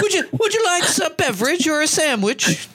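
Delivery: high-pitched mock English accent offering drinks; a hammed-up English accent from a cart girl; English golf cart lady. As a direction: put on a posh English golf course server's accent. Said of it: "she had an English accent either".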